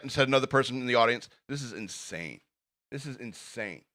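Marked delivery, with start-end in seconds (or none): 1.5-3.8 muttered quote. Acted. Low aside from audience member.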